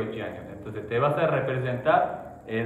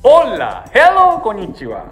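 cute anime streamer; 10 semitones higher, 13 dB louder than usual. Acted. Streamer greeting opener.

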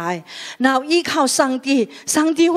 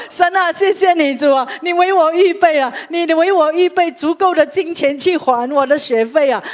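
retold prayer; 5 semitones higher, 4 dB louder than usual. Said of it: "所以我回来安静祷告".

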